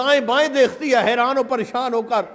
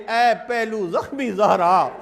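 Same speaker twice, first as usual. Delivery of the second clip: slow plea; 5 semitones lower, slower than usual. Retold or imitated. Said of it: "ساتھ کہہ دے".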